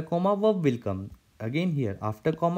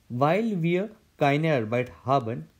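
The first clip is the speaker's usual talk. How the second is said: slow dictation. Shown as a demonstration. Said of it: "Let's see".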